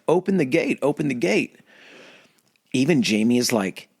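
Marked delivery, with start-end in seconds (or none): 0.1-1.6 high, urgent pleading voice; frantic Mad King. Acted. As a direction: beg them to open it, pitched up. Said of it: "And the Mad King is like".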